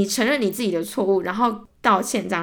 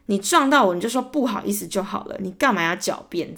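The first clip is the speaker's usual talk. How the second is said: angry retort. Retold or imitated. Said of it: "我就心中一把火突然烧起来".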